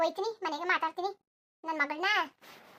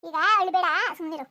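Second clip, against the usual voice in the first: loud hushing; 5 dB louder than usual. Acted. Mother hushes crying daughter.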